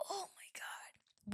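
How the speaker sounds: breathy slow whisper, as if sharing a secret. Real, not acted. Confessing what women want, whispered.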